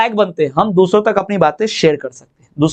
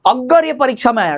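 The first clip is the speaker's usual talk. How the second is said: raised tone; 5 semitones higher than usual. Shown as a demonstration. Teacher repeating the exam example to demonstrate intonation, raised tone. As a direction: lift the whole of "अगर ये परीक्षा में आया" into a higher tone. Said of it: "tone बढ़ा".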